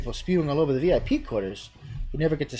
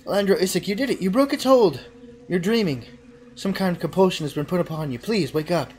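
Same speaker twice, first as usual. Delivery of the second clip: much higher, pleading; melodious voice; 6 semitones higher, 5 dB louder than usual. Acted. Fiola to the hero, high melodious plea. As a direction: lift him toward freedom.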